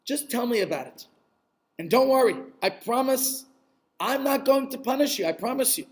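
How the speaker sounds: gentle, patient coaxing with long pauses; kindly. Acted. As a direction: reassure a frightened man, unhurried. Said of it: "looked at him very kindly and said".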